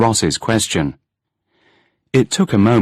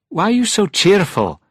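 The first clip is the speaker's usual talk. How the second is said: incredulous; 12 semitones higher than usual. A narrator's reading. Groggy Angus questions cheerful Ross.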